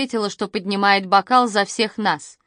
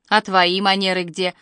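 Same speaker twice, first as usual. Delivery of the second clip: ordinary delivery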